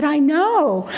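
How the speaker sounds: put-on high little-kid reply; little boy. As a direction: imitate a pleased small boy. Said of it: "And he said".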